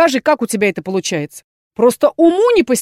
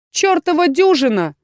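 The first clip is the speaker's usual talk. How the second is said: mild snap; 6 semitones higher than usual. A narrator's reading. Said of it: "рявкнула некромантка".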